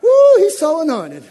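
loud mock gushing praise; mock adoration shout; mocking churchgoer. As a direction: ham up a fawning fan of the pastor. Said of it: "put on the Ritz".

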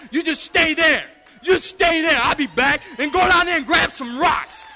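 rally the church like a revival preacher; preaching at full force. Acted.

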